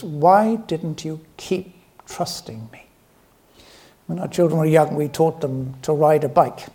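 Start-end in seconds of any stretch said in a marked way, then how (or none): 0.0-2.9 gentle question. Retold or imitated. Jesus gently asking Peter why he stopped trusting, slow and kind. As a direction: ask it like a patient friend, not a judge. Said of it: "What he's saying here is".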